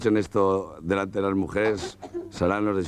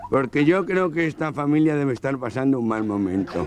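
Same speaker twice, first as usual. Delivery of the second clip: a light nasal, higher joke voice; nasal-voiced man; 5 semitones higher than usual. Nasal guest tells his wife, lightly voiced. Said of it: "Un gangoso".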